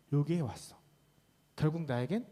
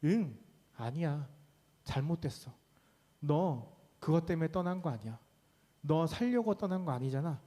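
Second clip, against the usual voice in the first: God's flat correction; 2 semitones lower than usual. Acted. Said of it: "하나님이 뭐라고 대답하시죠".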